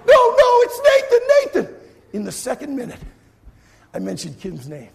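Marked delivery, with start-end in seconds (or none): 0.1-1.7 high, loud, laughing; announcer fixing his own call; excited correction. Retold or imitated. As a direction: catch yourself mid-call. Correcting the lead mid-contest.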